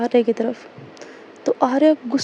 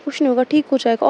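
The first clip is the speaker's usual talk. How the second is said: lovingly comforting. Retold or imitated. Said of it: "बहुत ज़्यादा प्यार से बोलती है".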